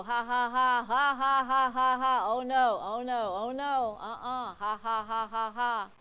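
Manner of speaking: hammed-up loud laughter broken by oh-nos; imitated defiant laughing. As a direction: laugh in the devil's face, big rhythmic ha-has. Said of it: "I'm laughing at you".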